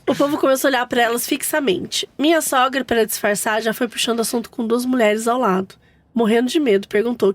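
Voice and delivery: steady, even read-aloud; story narration. A narrator's reading. Host reads mother-in-law's funeral mishap to co-hosts, story narration. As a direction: tell the tale as written, evenly.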